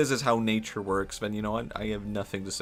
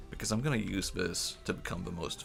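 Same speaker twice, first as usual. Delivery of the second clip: evil worm; 4 dB quieter than usual. Acted. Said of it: "an evil worm".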